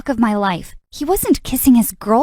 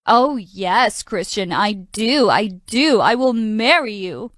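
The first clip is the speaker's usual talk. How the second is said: mocking imitation; slower than usual. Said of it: "My stupid brother teased me".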